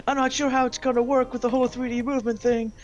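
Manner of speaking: joking American leader announcing a space wall; bad American accent. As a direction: campaign like a blustering American president. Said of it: "I can't do an American accent".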